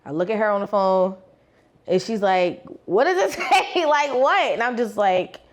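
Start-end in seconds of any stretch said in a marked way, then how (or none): 2.8-4.5 eager best friend. Retold or imitated.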